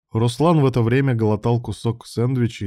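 ordinary delivery

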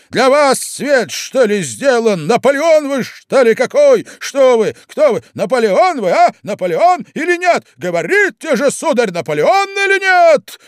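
высоко и громко, в бешенстве; трясясь от досады, наседает с вопросами; гневный крик. Acted. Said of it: "прогремел, наконец, Марк Иванович". (Марк Иванович гремит на Прохарчина)

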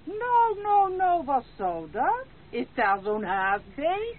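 high, loud sarcastic soothing; mocking protest. Grandmother mocks the lady's order to leave, high sarcastic protest. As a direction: tease her for the hurry.

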